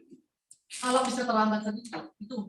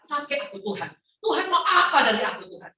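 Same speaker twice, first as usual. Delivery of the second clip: fervent prayer; 5 semitones higher, 6 dB louder than usual. Shown as a demonstration. Model prayer of surrender.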